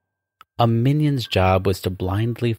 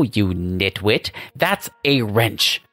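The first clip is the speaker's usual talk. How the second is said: scolding demon uncle. Acted. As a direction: berate a useless nephew. Scrudius scolds his nephew.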